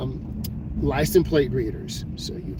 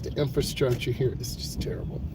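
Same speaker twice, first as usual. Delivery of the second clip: whispering; 8 dB quieter than usual. Real, not acted. Quiet aside while driving.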